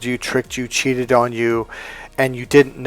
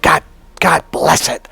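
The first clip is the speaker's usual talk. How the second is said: a half-hearted retold yell, slightly raised; mock yell; 3 semitones higher than usual. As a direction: pretend to blurt it out while mad. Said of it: "I yell out".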